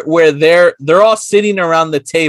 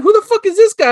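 high-pitched, incredulous jealous demand; mock outrage; faster than usual. Boyfriend hearing about his girl's date, mock outrage. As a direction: act out a jealous boyfriend's disbelief. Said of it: "I would've gotten mad".

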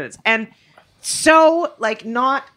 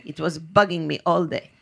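bad Greek accent; 4 semitones lower, slower than usual. Greek driver finally getting his word, relieved bad Greek accent. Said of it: "I can't do the accent".

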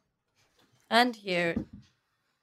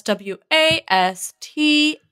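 slow spelling out; slower than usual. Acted. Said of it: "That's pronounced".

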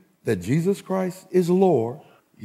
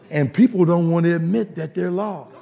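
normal talking voice

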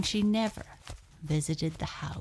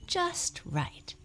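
content sigh; 13 semitones higher than usual. Acted. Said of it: "She sighed and settled down".

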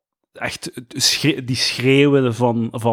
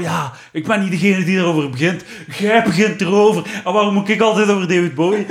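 angry rant; 5 semitones higher than usual. Retold or imitated. Podcast host imitating Serge's indignant radio rant, mock angry. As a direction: imitate an indignant man who insists he never raised the subject. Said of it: "wordt hij dan heel kwaad van".

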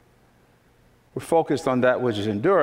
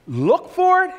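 high preaching call; 4 dB louder than usual. Acted. Rhetorical call and answer.

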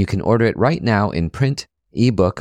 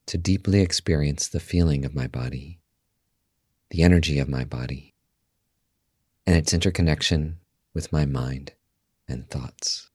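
guided meditation; 4 semitones lower, 6 dB quieter than usual. Acted. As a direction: guide listeners calmly into stillness, softly and unhurried.

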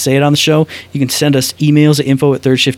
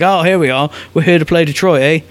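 a loose attempt at a Canadian accent; badly faked Canadian accent; 3 semitones higher than usual. Hockey players arriving to play Detroit, badly faked Canadian accent. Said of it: "that's not a Canadian accent".

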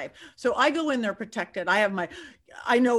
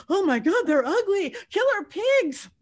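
much higher, louder, slow disgusted groan; looking up boars on her phone, mock disgust; 9 semitones higher, 4 dB louder than usual. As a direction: recoil at the photos. Reacting to photos on phone.

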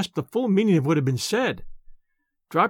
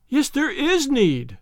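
high, slow and tearful; tearful insistence; 7 semitones higher, slower than usual. Acted. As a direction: draw it out through the tears, pleading. Anne insisting through tears.

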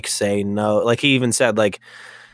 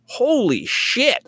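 shocked exclamation; 10 semitones higher, much slower than usual. Retold or imitated. Shocked at bloody face on monitor.

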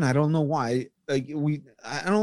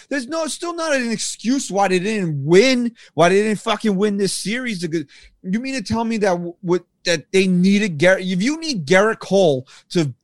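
real frustration; 3 semitones higher than usual. Real, not acted. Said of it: "I'm so fucking mad right now".

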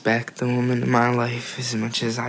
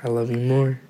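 repeated more clearly; faster than usual. Real, not acted. Son repeating it for parent who didn't hear, clearer and firmer. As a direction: say it up so it can be heard. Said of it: "Uh, I didn't hear you".

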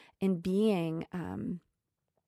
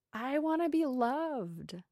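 soft slow confession; 5 semitones higher, 6 dB quieter, slower than usual. Real, not acted. Soul's quiet confession.

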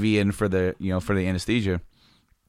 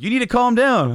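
imitating staff; 13 semitones higher, 4 dB louder than usual. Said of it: "And like, like".

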